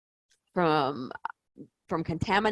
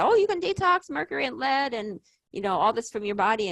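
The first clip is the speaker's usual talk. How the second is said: higher-pitched quote of a glib promise; imitated sales promise; 5 semitones higher than usual. Someone promising an easy mercury detox, higher mocking imitation. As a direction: lift the pitch to parody the claim. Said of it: "you're being told that".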